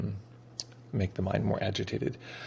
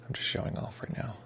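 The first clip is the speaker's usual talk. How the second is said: lips held still, words pushed through; talking without moving lips; 5 semitones higher, 11 dB quieter than usual. Shown as a demonstration. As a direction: talk with frozen lips, like a ventriloquist. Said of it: "without moving my lips".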